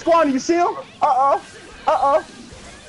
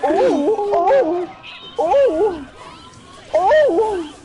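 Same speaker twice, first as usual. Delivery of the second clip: excited hooting; 7 semitones higher, much slower than usual. Real, not acted. Hyped reaction to a play.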